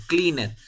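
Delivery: "cleaned" in two syllables, clean-et; wrong extra syllable. Shown as a demonstration. Teacher showing a common mistake, "cleaned" as clean-et. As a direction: sound the E in "cleaned" as its own syllable. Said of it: "no siempre se va a pronunciar".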